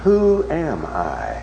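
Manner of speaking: subdued, despondent wondering; dejected little boy. Retold or imitated. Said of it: "hurt little boy of eight years old".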